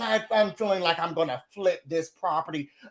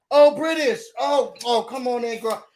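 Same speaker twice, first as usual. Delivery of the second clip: gushing welcome; 3 semitones higher than usual. Retold or imitated. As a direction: greet her with fake delight. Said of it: "Jackie was like this".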